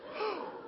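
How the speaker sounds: high startled gasp. Shown as a demonstration. Preacher gasps like frightened Israelites hearing of giants. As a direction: gasp as if the giants are real. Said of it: "respond the way the people of Israel did".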